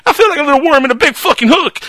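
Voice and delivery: high, loud snarling villain voice; loud mocking villain impression; movie villain quote. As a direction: growl it like a gloating screen villain. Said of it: "Love that scene".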